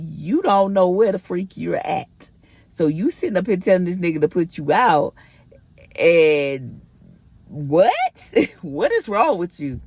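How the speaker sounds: exasperated talking-to with a laugh near the end; retold self-scolding. Retelling scolding herself in disbelief.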